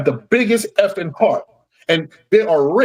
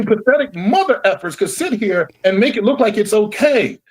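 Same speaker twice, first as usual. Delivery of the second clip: angry; 5 semitones higher than usual. Real, not acted. Angry rant at the league.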